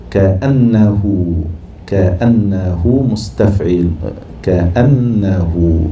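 كأنه stretched very slowly, each syllable held; drawn out. Shown as a demonstration. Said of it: "teacher drawing out a word". (نطق كأنه ببطء شديد مقطعا مقطعا)

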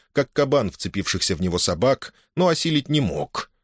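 ordinary delivery

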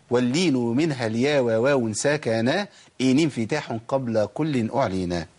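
slow chanted verse; recitation of a verse. Shown as a demonstration. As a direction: recite the line slowly like a poem. Recites a line of the tajweed poem. (تلاوة بيت الشعر ببطء)

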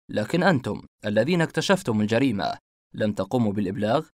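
accusing. Acted. Detective confronts the suspects.

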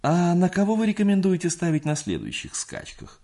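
high, loud, greedy question; eager, deferential. A narrator's reading. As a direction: ask eagerly and humbly. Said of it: "спросил он почтительно и алчно".

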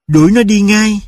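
a mother ordering the dog out; stern order. A narrator's reading. Mother orders Tulip to throw the dog out, sharp.

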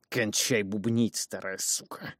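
slow, rasping and pushed low; hoarse low voice. Acted. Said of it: "просипел я, пытаясь заставить свой мальчишеский голос звучать ниже".

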